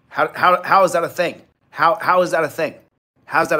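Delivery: real angry disbelief; outraged disbelief. Real, not acted. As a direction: demand an answer that won't come, fuming. Furious disbelief in a rant.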